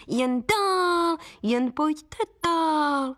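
high, slow showman's pitch; heron barker. Acted. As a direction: sell the film like a fairground crier, drawn out. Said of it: "vyvolávala volavka". (vysoký pomalý vyvolávač před kinem)

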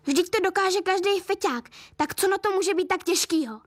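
high, impatient scolding of dad; exasperated. A narrator's reading. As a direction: daughter Tamara pushes scared dad to inject, exasperated. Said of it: "ozvala se Tamara".

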